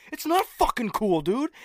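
high-pitched retold protest; worked-up, indignant impression; mock freak-out. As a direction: imitate a friend freaking out. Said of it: "he's just freaking out".

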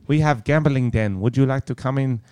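put-on improvised Asian-accented server with a sly invitation; mock Asian accent. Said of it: "I don't know what accent that was".

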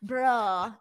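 "Bruh" said short, like the slang word; a clipped slang "Bruh". Shown as a demonstration. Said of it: "it's brawl and then bruh".

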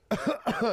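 small throat-clearing cough; acted cough. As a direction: cough as if caught hungover. Acting out coughing in retold scene.

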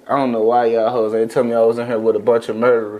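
low, lightly imitated stand-up rant; a hint of drunk-uncle comic; Corey Holcomb. Retelling a comedian's opening to friends, low mock rant. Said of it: "He, he the drunk uncle".

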